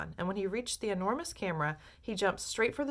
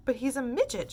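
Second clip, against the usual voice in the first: higher, louder dismay; shocked shout; 7 semitones higher, 4 dB louder than usual. A narrator's reading. Father shouting at the screen, higher and louder. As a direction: blurt it out. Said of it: "shouted Mister T V".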